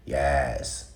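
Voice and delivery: "Yes" in a mock New York accent. Imitating the talk-show host's yes, New York accent. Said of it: "she used to say".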